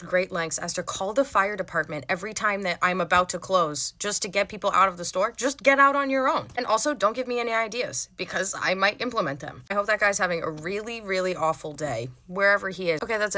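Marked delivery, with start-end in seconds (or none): 5.4-8.1 exasperated. Acted. Venting at lingering customers.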